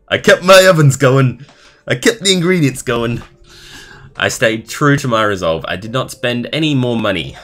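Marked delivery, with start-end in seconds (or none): 0.1-5.7 high, loud mock-heroic reread, laughing at the text; hammed-up dramatic reading. Rereading a viewer's baking story, he hams it up as an epic feat. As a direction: belt it out like an epic triumph, tongue in cheek. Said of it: "it's kinda funny reading this".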